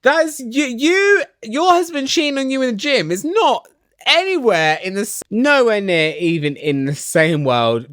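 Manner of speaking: high-pitched, indignant shouting back at her; mock outraged yell. Teresa shouting back at Jackie, high outraged mock yell. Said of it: "It's like".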